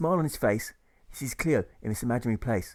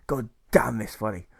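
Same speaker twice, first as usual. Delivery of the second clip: angry curse; 3 dB louder than usual. Acted. Marshal curses again.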